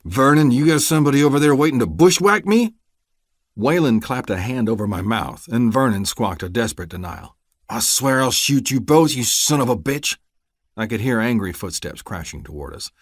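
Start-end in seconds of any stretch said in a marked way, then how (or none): 0.0-10.2 loud, high threatening shout; furious threat. Acted. Deputy suspecting an ambush, furious shouting. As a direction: roar at the hidden men.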